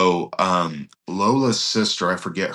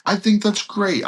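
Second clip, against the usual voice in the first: mock sarcastic Charlie; 13 semitones higher, 3 dB louder than usual. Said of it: "he's just so sarcastic and dry".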